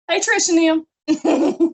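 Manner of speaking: high, loud shout-out; calling out. Real, not acted. Instructor greeting Trish and them in class, calling out. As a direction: holler a big hello to the group.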